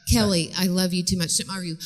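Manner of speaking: even, patient broken-record reply; calm mother. Acted. Mother holding firm with arguing daughter, calm. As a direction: stay unruffled under protest.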